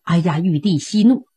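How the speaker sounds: an emperor soothing his angry sworn brother with a smile; lightly voiced placating emperor; smiling appeasement. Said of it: "赵匡胤满脸堆笑".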